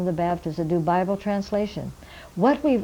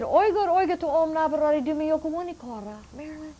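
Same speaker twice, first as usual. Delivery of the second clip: put-on much higher, curious old elder's voice; old man questioning; 7 semitones higher than usual. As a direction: ask like a puzzled old elder. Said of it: "He said".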